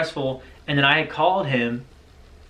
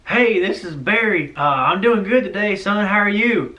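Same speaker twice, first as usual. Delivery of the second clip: put-on thick-accented dad, higher and drawn out; Barry; 6 semitones higher than usual. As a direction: imitate a girlfriend's dad in a thick accent, slowly. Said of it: "thick accent".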